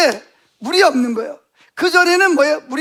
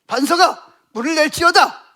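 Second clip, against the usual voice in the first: firm, slightly raised proclamation; solemn command; 2 semitones higher than usual. Shown as a demonstration. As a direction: command it as if it must obey. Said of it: "이렇게 명령해라".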